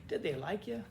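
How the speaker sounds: really ask, without any jab; gently curious, in earnest; genuine question. Shown as a demonstration. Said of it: "But, but really".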